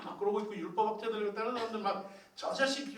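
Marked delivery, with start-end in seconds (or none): 2.3-3.0 high-pitched jeer from a mob; acted angry jeer. Crowd cursing the condemned man, imitated angry jeer. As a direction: hurl it like an insult. Crowd curses, throwing stones.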